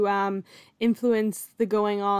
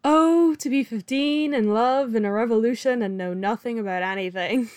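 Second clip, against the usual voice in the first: mock wistful; 3 dB louder than usual. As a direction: gush in mock yearning, settling down gradually. Mock swooning over teenage love.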